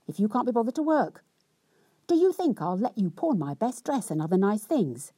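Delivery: mock-indignant wife's rant; rather cross. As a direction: nag her husband crossly for coming home. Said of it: "she said rather crossly".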